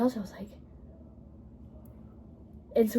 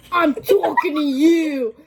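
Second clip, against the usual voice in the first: imitated Boston accent, higher and drawn out; 4 semitones higher, 4 dB louder, slower than usual. Classmate pointing at her Chromebook, mock Boston accent. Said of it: "she said it with a Boston accent".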